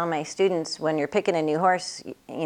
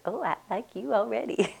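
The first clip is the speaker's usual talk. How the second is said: horse voiced; 6 semitones higher than usual. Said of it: "He goes".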